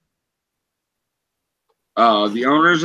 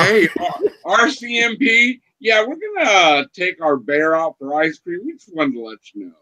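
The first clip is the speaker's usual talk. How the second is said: mock zoo owner; 4 semitones higher than usual. Voicing zoo calling police.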